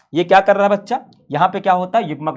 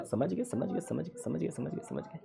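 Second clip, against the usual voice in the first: mock students' chorus; 3 semitones lower, 21 dB quieter than usual. Students voiced answering back.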